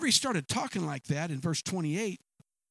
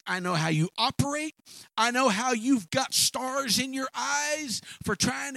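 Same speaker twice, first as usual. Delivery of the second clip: scolding brother; 5 semitones higher than usual. Acted. Eliab scolding David.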